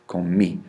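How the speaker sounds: "Comí" stressed on the final í; stressed final accent. Shown as a demonstration. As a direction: put the accent into the end of "Comí". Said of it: "Putting that accent in there".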